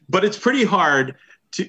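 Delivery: breaking into laughter mid-sentence; laughing. Real, not acted. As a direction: talk through a real laugh. Laughing at own remark.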